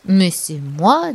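"moi" drawn out and rising; protest on moi. A narrator's reading. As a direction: stretch "moi" slowly upward in protest. Bear protests the wolf's claim. (« moi » étiré, qui monte)

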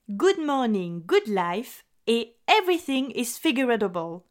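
English titles in a French accent; French accent on English book titles. Real, not acted. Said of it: "mon accent anglais".

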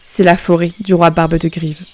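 a mild gruff reply; lightly grumpy fiddler. Acted. Fiddler answering the princess, mildly gruff. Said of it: "avec un ton bourru".

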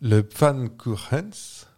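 slow, careful German pronunciation of Pfannkuchens; sounding out Pfannkuchens like a German, slowly; German accent. Shown as a demonstration. Host apologising for her accent, German pronunciation. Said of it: "excusez-moi mon accent".

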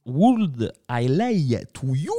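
slow English title in a put-on accent; showy English accent. Host announcing an English song title to the guests, slow showy accent. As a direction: draw out the English with a proud mock accent. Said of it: "mon bel accent".

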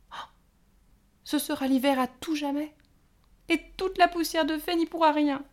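high fairy voice building from worried to loud lament; rising despair. A narrator's reading. Pâquerette pleads to her sisters, rising to a loud despairing cry. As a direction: panic growing line by line.

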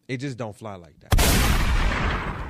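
slow and loud, every word landed; "It just don't fly like that" said slowly and loudly; loud, slow emphasis. Acted. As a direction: drag it out loud like a verdict. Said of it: "I'm sorry".

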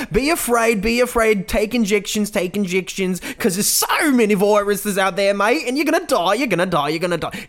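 high, sing-song mock nanny chant; mock motherly warning. Parodying the news woman's fear message, high mock chant. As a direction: chant it like a creepy cheerful nurse. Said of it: "some motherly woman that's telling you".

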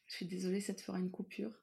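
vocal fry, just woken up; croaky morning voice, barely awake. Real, not acted. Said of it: "j'ai ma voix du matin qui vient de se réveiller". (voix du matin, avec friture vocale)

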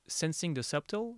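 French-accented English. Real, not acted. Interviewer explaining the acronym's last letter, French-accented English. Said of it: "mon accent anglais, euh, va rentrer en, en scène".

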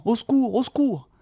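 high desperate call; lost hobbit calling high for help; crying for help. A narrator's reading. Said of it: "en criant".

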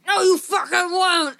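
high, drawn-out hammed-up outcry; mock outraged refusal. Clinic boss refuses the colleague's offer, hammed-up outrage. Acted refusal in retold argument.

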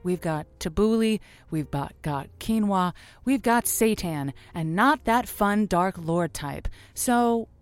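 honeyed late-night host, then a promo read; radio sign-off and promo. Acted. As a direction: tease the next show like a radio ad. Host signs off, reads promo.

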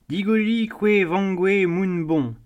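a high, sing-song call in Marseille dialect; Provençal call. A narrator's reading. The Moorish girl teasing Tartarin from the gallery, cheeky call in Provençal. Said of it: "cria la Moresque".

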